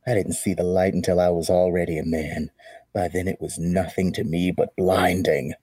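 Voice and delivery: lightly voiced villain monologue; a hint of Bane menace. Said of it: "you can sound like Bane".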